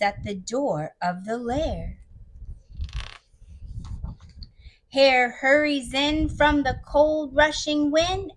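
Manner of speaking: put-on slow read-aloud to children; measured, unhurried storytelling; story narration. A narrator's reading. Storyteller telling of Hare arriving with muffins, slow narration. Reads the picture book aloud.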